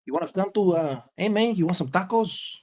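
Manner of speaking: put-on casual Hispanic Los Angeles accent; LA Hispanic accent, offering food to a buddy. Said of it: "That's L A accent".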